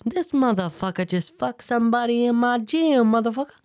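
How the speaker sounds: high-pitched, put-on indignant accusation; mock accusation. Coaching a reaction to his weirdness, mock accusing. Acting out advised suspicious reaction.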